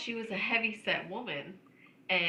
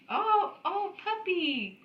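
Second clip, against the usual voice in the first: lightly voiced amazed husband; awed husband; much slower than usual. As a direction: gush over a big dog like a kid. Husband's awed remark about dog.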